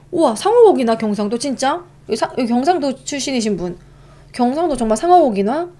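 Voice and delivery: can't believe it; amazed. Real, not acted. Amazed at shark meat. (깜짝 놀라며 묻기)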